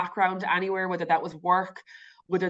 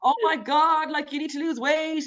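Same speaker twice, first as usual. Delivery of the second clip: mock panicked thought; 8 semitones higher than usual. Guest voicing her intrusive body image thoughts, mock panic. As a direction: act out a fretting inner voice.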